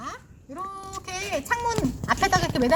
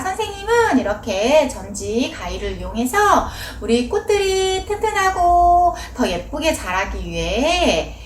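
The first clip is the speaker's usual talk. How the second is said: put-on explaining to children. Shown as a demonstration. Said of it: "이렇게 설명하면 좋겠지요".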